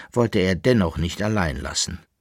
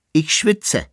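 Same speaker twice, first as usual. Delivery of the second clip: high, louder last line; singsong finish; 9 semitones higher, 5 dB louder than usual. A narrator's reading. Koppelbär ends his rhymed complaint, still in singsong. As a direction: round off the chant. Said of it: "beendete der Koppelbär seinen gereimten Singsang".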